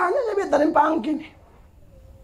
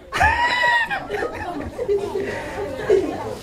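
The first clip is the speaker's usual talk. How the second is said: big laugh; 4 dB quieter than usual. Real, not acted. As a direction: let a high whooping laugh out. Pastor laughs at own joke.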